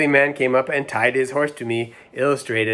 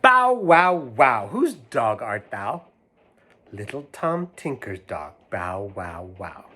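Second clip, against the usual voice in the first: slow sing-song barking rhyme; dog rhyme; slower than usual. Acted. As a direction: bark it out slowly, playful.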